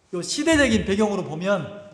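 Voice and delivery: ordinary delivery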